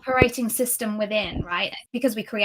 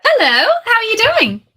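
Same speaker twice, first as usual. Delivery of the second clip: excited; 11 semitones higher, 11 dB louder than usual. Real, not acted. Greeting guest on live call.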